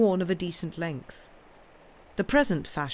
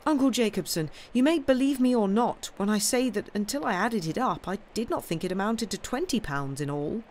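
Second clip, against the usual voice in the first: higher-pitched, lightly voiced young man; earnest young nephew; 6 semitones higher than usual. Nephew confessing debts to his uncle, earnest. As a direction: insist you are telling the truth.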